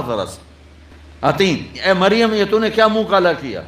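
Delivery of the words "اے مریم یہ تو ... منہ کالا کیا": higher, scornful reproach; mocking taunt. Crowd jeering at Maryam with scornful reproach. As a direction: shame her with a jeer. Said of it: "دوسرا طنز".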